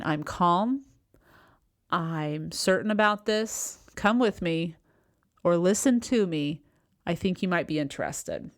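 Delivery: unhurried, with pauses between phrases; slow, calm assurance. Acted. Coach voicing a calm leader inviting people along, calm and slow. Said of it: "when you speak slower, you're basically demonstrating".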